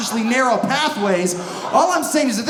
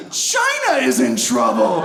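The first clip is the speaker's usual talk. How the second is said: China stretched high, then dropping; stress on China; 3 semitones higher than usual. Acted. Comedian rebutting the worriers, heavy stress on China. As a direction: punch the word China as a correction. Corrects who is in trouble.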